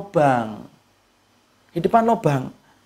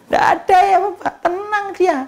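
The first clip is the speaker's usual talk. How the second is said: emphatic high insistence; 12 semitones higher than usual. Real, not acted. Preacher insists baby is calm.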